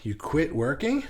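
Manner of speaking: "You quit working?" echoed back with a rising, disbelieving tune; surprised question. Real, not acted. Echoing Ray's comment back in surprise, rising question. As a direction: repeat it back like you can't believe it.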